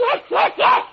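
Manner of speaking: very high, loud frantic agreement; terrified yes. Acted. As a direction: agree desperately to escape. Daisy agreeing in terror.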